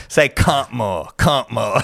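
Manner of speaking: slow, badly faked Australian accent; Australian accent attempt. Shown as a demonstration. American host trying out the guest's catchphrase, badly faked Australian accent. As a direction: have a clumsy go at an Australian accent, drawn out. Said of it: "try to say it with the Australian accent".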